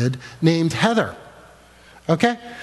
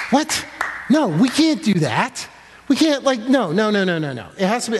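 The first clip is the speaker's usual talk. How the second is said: high alarmed protest; 4 semitones higher than usual. Retold or imitated. Wife's retold refusal.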